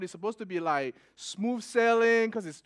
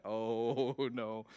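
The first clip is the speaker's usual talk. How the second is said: low, soft "oh no"; quiet dismay; 7 semitones lower, 6 dB quieter than usual. Retold or imitated. Churchgoer taken for a drunk, quiet dismay. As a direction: sink into mock dread. Retold dismay at being suspected.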